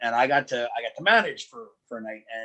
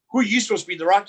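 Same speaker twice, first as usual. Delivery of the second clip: put-on higher, sneering jab at a kid; mocking taunt; 6 semitones higher, 6 dB louder, much faster than usual. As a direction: taunt him like a heel. Heel mocking a fan.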